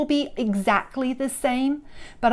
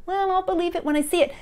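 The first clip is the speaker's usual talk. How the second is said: mock doubter; 6 semitones higher, 3 dB quieter, much faster than usual. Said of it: "we get caught up in".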